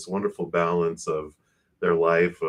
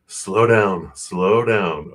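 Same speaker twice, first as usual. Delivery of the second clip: telling herself to slow down; 6 dB louder, much slower than usual. Real, not acted. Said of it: "I'm talking so fast".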